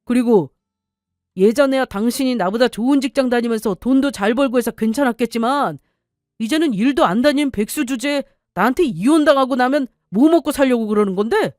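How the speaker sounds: lightly voiced husband, coldly threatening; a hint of a bullying husband pressing his wife; husband voiced lightly, cold threat.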